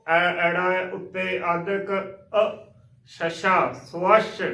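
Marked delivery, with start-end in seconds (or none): 3.7-4.4 "ਸਵੱਛ" as so-WASH after spelling it; correct pronunciation. Shown as a demonstration. Teacher assembling the spelled word, correct model pronunciation. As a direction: say "ਸਵੱਛ" with rounded so, full wa-sh. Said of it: "ਇਸ ਦਾ ਸ਼ੁੱਧ ਉਚਾਰਨ ਹੈ".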